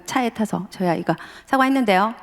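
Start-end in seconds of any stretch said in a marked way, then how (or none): 1.5-2.2 mildly defiant reply, slightly higher; sulky son, a bit raised. Retold or imitated. Son answering his father in the car, mildly defiant. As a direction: say 사과했는데요 with a touch of teen defiance. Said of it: "점점 서로 격해".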